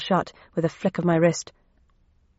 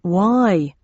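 yelling back; 4 dB louder than usual. Acted. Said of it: "he yelled back".

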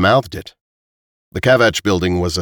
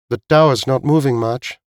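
higher-pitched woman character's line; lightly raised voice for Veek; lightly voiced Veek; 5 semitones higher than usual. A narrator's reading. Veek talking to Tim about the tower, lightly voiced higher.

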